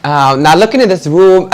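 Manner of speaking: pumped up. Real, not acted. Guest standing up to answer the host, excited and laughing. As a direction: psych yourself up to speak, laughing. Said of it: "I have to stand up for this one".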